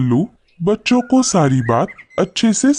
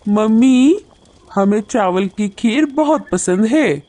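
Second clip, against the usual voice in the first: high little chick voice; happy chick; 5 semitones higher than usual. Acted. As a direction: speak up to Mummy like a child. Chicks tell mother they love it. (चूज़े की खुश, बच्चे जैसी आवाज़)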